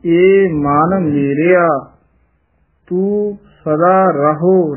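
teacher spells it out slowly; slow model diction. Shown as a demonstration. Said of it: "ਮਨ ਪੋਲਾ ਹੀ ਬੋਲਣਾ ਹੈ". (ਹੌਲੀ ਤੇ ਉੱਚਾ ਉਚਾਰਨ)

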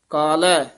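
ਕਾਲੈ with an easy single ਲ; don't tighten the ਲ in ਕਾਲੈ; loose ਕਾਲੈ. Shown as a demonstration. Teacher showing students ਕਾਲੈ pronounced loosely. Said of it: "ਪੋਲਾ ਉਚਾਰਨ ਕਰਨਾ ਹੈ".

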